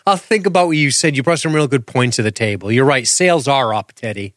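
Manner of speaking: breezy manager humoring an employee; condescending boss. Retold or imitated. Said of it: "like he asked for a raise".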